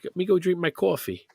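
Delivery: Brooklyn mom imitation; New York accent. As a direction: say it like a Brooklyn mother. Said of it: "In a New York accent".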